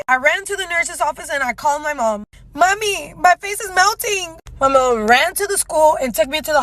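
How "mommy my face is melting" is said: high, whiny call for mom; mock child panic. Child phoning mom from nurse's office, mock panic. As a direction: wail it lightly like a scared kid.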